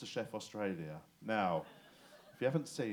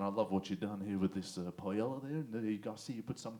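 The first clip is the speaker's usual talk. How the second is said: lightly imitated Australian TV chef; a touch of Aussie accent, low and casual; Australian accent on a bloke-ish host; 3 semitones lower than usual. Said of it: "he talks in an Aussie accent".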